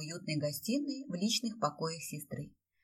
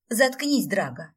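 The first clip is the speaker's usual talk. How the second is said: loud, higher furious snarl; 3 semitones higher, 7 dB louder, slower than usual. A narrator's reading. Heroine snarls at teasing Drago in fury. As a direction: snap at him in fury. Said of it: "зарычала в ярости".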